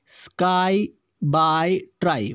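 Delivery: स्काई, बाय, ट्राई all ending on "ai". Shown as a demonstration. Teacher shows the same endings, "ai" in स्काई, बाय, ट्राई. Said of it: "वाई का जो उच्चारण है same है".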